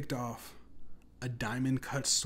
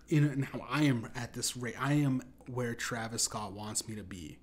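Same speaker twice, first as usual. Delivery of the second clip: normal talking voice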